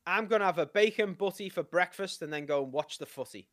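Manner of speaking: British phrase given to copy; measured British demonstration; British accent. Shown as a demonstration. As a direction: model the British accent for a learner. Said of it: "I'll give you a phrase".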